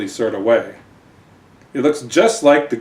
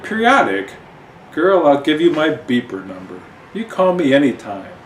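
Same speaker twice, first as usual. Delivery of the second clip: sassy Gash; 4 semitones higher, 4 dB louder than usual. Acted. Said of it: "the Gash responds".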